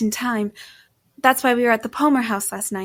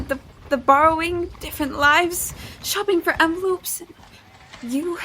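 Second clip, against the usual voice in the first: pitched up, stumbling and panicky; frightened stammer; 4 semitones higher than usual. Acted. Cornered woman stammering excuses to Jesse, frightened and higher. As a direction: babble the excuse, tripping over every word.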